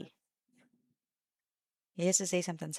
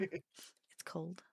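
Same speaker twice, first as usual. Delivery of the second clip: whispered; 2 semitones lower, 11 dB quieter than usual. Pretend. Unvoiced whisper repeat.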